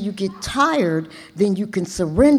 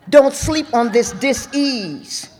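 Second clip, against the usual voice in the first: passionate preaching, pushing hard at the crowd; preachy; 2 semitones higher than usual. Real, not acted. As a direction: preach it like a fired-up sermon. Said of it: "I sound preachy because I get passionate".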